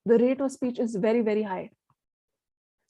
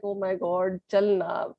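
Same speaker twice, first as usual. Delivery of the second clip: mildly impatient, fast and low-key urging; bored, impatient; 3 semitones lower, faster than usual. Acted. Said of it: "The other person will get bored".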